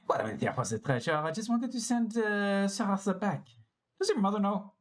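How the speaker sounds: high-pitched French character voice; French accent. Acted. Characters talking about a treasure hunt, in French accents. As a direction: play it with a put-on French accent. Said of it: "Everybody's French".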